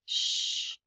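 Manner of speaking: soft unvoiced shush; breathy shh to calm her; whispered hush. A narrator's reading. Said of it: "said the princess".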